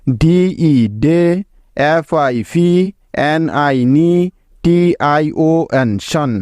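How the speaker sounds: slow spelling-out, each syllable set apart. Shown as a demonstration. Teacher to students, reading out the syllables slowly. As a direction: sound out the letters and syllables one by one. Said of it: "তাহলে কি কি syllable পেলাম এই শব্দটিতে?".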